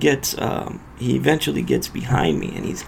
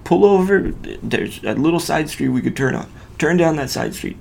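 retold challenge; 4 semitones higher than usual. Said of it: "So I tell him".

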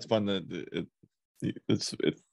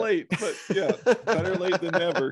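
mock sarcastic; 8 semitones higher than usual. Teasing wife about late thanks.

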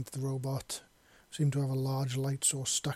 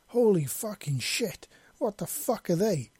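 high-pitched panicked cry, swooping down; alarmed, fearful yell; 6 semitones higher, 4 dB louder than usual. A narrator's reading. Male human caught in blinding light, yelling in alarm. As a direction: cry out in sudden fright. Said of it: "yelled in both alarm and fear".

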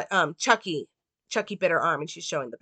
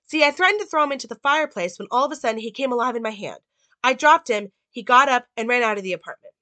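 urgent Karen; 5 semitones higher, 4 dB louder, faster than usual. Retold or imitated.

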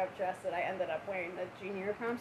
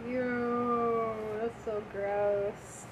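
disgusted; much slower than usual. Real, not acted. Reacting to the spoiled milk smell.

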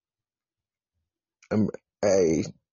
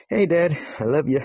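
higher and louder shout-out; calling out to Dad; 6 semitones higher, 4 dB louder than usual. Real, not acted. Son sending a shout-out to his listening dad, loud. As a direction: beam it across the room to him.

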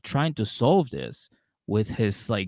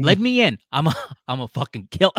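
put-on loud drunk threat; drunk angry; 6 semitones higher, 7 dB louder than usual. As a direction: bang on the door raging. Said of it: "at the door going".

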